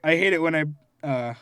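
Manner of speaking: real tears welling up; about to cry. Real, not acted. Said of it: "I'm about to start crying".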